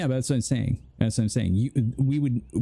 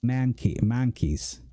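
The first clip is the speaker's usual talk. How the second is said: put-on Northern accent; slower than usual. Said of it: "I can't do it".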